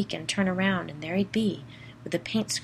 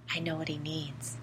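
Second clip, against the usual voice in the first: whisper; 6 dB quieter than usual. Acted. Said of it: "Pete said in a whisper".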